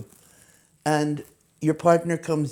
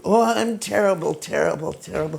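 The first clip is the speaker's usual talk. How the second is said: complaining aunt; 3 dB louder than usual. Retold or imitated. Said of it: "her point of view was".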